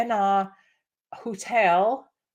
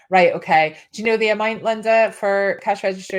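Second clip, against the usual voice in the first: mildly exasperated radio DJ, louder; annoyed; 6 dB louder than usual. Retold or imitated. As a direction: imitate a host losing patience, a little louder. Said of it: "like, really annoyed".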